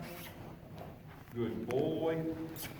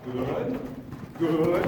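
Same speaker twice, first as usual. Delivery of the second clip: loud praise; 7 dB louder than usual. Real, not acted. Praising horse loudly.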